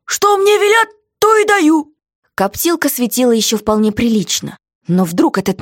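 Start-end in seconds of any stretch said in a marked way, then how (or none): 0.1-1.9 guard voice, high and loud; jailer's voice, clearly put on; gruff jailer. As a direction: play the surly jailer shouting down.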